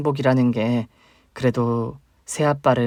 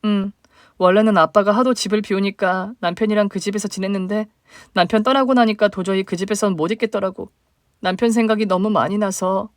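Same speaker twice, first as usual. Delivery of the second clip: higher, plaintive younger sister; 8 semitones higher than usual. Acted. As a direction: voice the hurt little sister reaching up.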